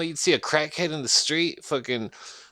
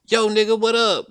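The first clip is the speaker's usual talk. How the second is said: street greeting; 8 semitones higher, 6 dB louder than usual. Retold or imitated. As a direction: toss off a loud street hello. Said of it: "being called".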